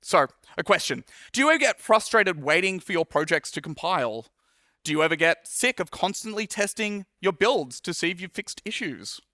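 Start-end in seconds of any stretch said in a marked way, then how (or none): 1.3-9.2 upbeat salesman pitch; infomercial voice. Shown as a demonstration. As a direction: sell it like a late-night ad. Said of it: "my infomercial voice that I'm doing".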